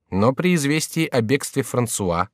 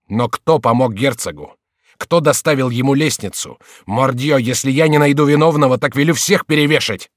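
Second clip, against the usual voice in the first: furious king; 4 semitones higher, 6 dB louder than usual. A narrator's reading. King furious, threatens hanging.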